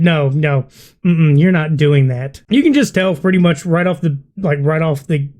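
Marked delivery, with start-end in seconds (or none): 0.0-2.4 mock pissy refusal.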